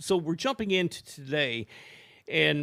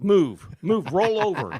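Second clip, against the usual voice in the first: retold orders to the dog; 5 dB louder than usual. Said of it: "I'm like".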